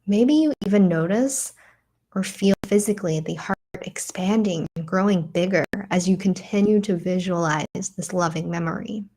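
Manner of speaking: unhurried guiding voice with long pauses; guided meditation. Acted. Teacher guiding listeners into breath and a loving memory, guided meditation. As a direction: lead them gently through it, leaving room to breathe.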